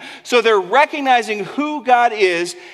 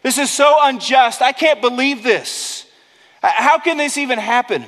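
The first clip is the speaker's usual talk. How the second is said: whiny, pitched-up protest; mock complaining; 5 semitones higher than usual. Apostles picture their own complaint, whining a little higher. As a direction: moan that it's all so unfair. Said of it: "They could have complained".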